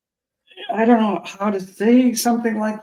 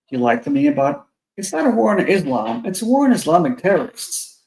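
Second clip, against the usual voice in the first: big hall echo; echoey voice. Real, not acted. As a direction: voice echoing like in an empty room. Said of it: "Boom, you sound really echoey".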